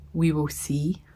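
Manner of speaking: soft unvoiced whisper. Real, not acted. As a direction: breathe it under your breath. Whispered aside about surgery.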